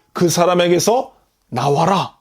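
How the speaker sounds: a touch of resolute authority; calmly and decisively order it out; firm command. Retold or imitated. Preacher voicing Jesus commanding the demon to leave, mildly firm. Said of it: "아주 단호하게 명령을 하셨던".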